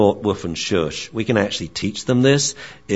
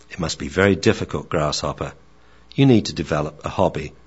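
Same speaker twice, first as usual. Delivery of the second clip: lower, brisk sage advice; a calm master counselling his pupil; wise old dog; 4 semitones lower, faster than usual. Acted. Theo advises the bored young dog, lower and quicker. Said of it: "Theo the Akita".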